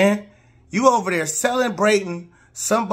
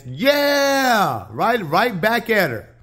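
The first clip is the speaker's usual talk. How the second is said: mock shout; 4 semitones higher, much slower than usual. Acting out the comeback screen.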